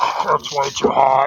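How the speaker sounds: mechanical machine voice. Resting late at night when a voice is heard speaking up; robotic voice. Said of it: "You hear a robotic voice going".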